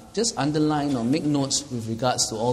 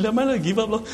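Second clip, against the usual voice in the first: retold wrong words; 7 semitones higher, 4 dB louder, faster than usual. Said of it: "it came out the wrong way".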